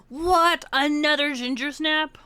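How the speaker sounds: a high, loud startled What; surprised. Real, not acted. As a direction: genuinely caught off guard. Surprised by another ginger snap.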